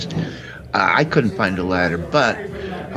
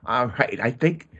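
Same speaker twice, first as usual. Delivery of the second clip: excited; 5 semitones higher than usual. Acted. Reassuring the stuck duck.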